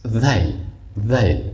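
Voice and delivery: "ذیل" with a thin, soft th as in "this"; soft, light dhal. Shown as a demonstration. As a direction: start "ذیل" lightly on the tongue tip. («ذیل» با ذال نرم و مرقق)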